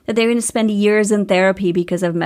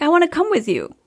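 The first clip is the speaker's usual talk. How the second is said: put-on child pleading; 8 semitones higher, faster than usual. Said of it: "she's like".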